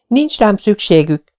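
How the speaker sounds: high, slow despairing cry. A narrator's reading. Orphan girl cries out she's unwanted. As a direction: wail it out in despair. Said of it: "kiáltotta".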